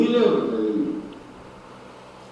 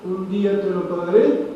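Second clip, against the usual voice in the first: clamoring plea; 3 semitones higher than usual. Acted. Kneeling servant begging the king not to sell his family, pleading. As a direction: plead desperately, stretching the first words. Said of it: "empezó a clamar".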